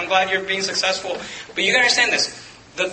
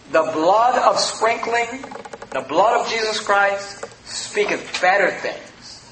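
slow tender emphasis. Real, not acted. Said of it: "preacher slows for key verse".

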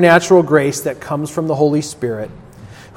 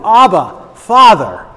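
heartfelt cry, higher and louder; 5 semitones higher, 4 dB louder than usual. Retold or imitated. Preacher voices the Spirit within believers, crying out. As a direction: cry it out to a father, raised and emphatic. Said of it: "crying out within each one of".

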